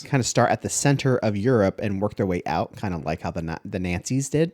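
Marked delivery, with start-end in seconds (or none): 3.3-4.5 "Nazis" said as "Nahtsis", Inglourious Basterds style. Retold or imitated. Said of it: "are you saying it like that 'cause Inglourious".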